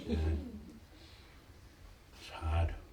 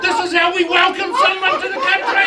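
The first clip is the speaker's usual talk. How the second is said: loud proud punchline; 11 semitones higher, 5 dB louder than usual. Acted. Punchline after haka.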